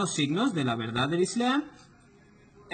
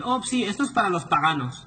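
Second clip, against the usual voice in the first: hammed-up "Oh, sí" waving the verse away; mocking dismissive quote; 4 semitones higher than usual. Lecturer mimicking Muslims who dismiss the verse, mock airy tone. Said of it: "Y muchos musulmanes te dicen".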